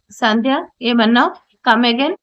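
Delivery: ordinary delivery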